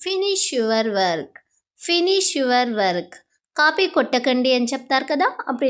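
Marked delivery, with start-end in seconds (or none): 0.1-1.3 very slow, clear classroom English; slow model phrase. Shown as a demonstration. Teacher modelling the phrase for Telugu students, slow and clear. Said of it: "మనం ఇలా అంటాం". 1.9-3.1 very slow, clear classroom English; slow model phrase. Shown as a demonstration. Teacher modelling the phrase for Telugu students, slow and clear. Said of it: "మనం ఇలా అంటాం".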